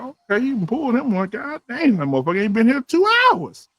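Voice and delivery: retold amazed reaction; impressed disbelief. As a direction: marvel at your buddy's quick success. Amazed at friend's quick success.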